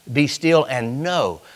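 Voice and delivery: soft and slow; hushed quote. Retold or imitated. Preacher quoting God softly and slowly. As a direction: let it settle gently. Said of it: "Did he not say".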